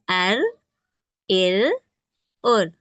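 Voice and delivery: अर, इर, उर with a single light r tap; teacher demonstrating the single r; sounding out ra. Shown as a demonstration. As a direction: tap the r once, never roll it. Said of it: "For example".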